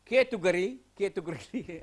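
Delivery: "category" slurred as a botched "ke-tu-gri"; repeated stumbling tries at "category"; struggling pronunciation. Real, not acted. Teacher wrestling with a hard word, "category" coming out garbled. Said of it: "I just have difficulty in pronouncing".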